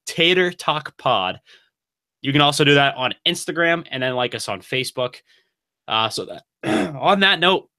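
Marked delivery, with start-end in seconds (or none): 0.1-1.4 slow and deliberate. Shown as a demonstration. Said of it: "Can't even say that with a straight fa". 5.9-7.7 something caught in the throat, clearing it; throat catch. Real, not acted. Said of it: "Something got caught in my throat there".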